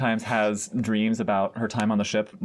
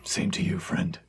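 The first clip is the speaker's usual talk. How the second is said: tender farewell; 2 semitones lower, 3 dB quieter than usual. Acted. Answers dead friend's tender farewell.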